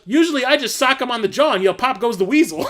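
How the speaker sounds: high, loud, cracking up through it; laughing retort. Retold or imitated. Quoting the movie's man's comeback, loud and laughing. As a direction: deliver the punchline while laughing. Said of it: "And he goes".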